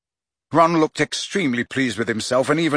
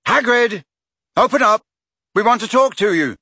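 high, loud shouted demand; calling out; 10 semitones higher, 6 dB louder than usual. A narrator's reading. Harry demands Hagrid open up, shouting. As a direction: shout through a closed door. Harry calls through closed door.

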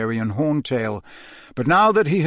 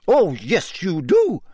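irritable; 5 semitones higher, 3 dB louder, slower than usual. Acted. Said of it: "said Professor McGonagall irritably".

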